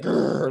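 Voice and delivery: imitated "grrr" through the teeth; mock growl; mimicked teeth-gritting growl. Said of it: "gritting her teeth".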